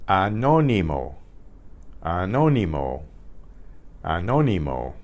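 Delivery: Anónimo as ah-NO-nee-mo, at natural speed; Spanish pronunciation demo. Shown as a demonstration. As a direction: repeat Anónimo for the learner with stress on NO. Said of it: "Here's a word for you".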